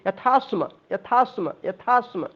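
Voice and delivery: यथास्म with aspirated थ, joined; यथास्म carefully; pronunciation demo. Shown as a demonstration. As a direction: say यथास्म clearly in one go. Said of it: "यथास्म मत बोलिए".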